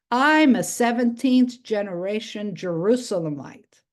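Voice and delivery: deep beautiful voice. Retold or imitated. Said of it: "he says in this deep, beautiful voice".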